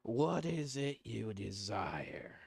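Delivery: slow, breathy creepy whisper; whispering paw voice. Acted. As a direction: whisper it like a tempting curse.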